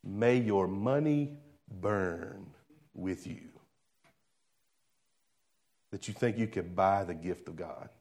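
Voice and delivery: slow, quiet, low solemn rebuke, lightly voiced; a hushed apostle condemning a bribe; Peter's rebuke. Preacher voicing Peter rebuking Simon, in a slow hushed rebuke. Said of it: "Remember what Peter said?".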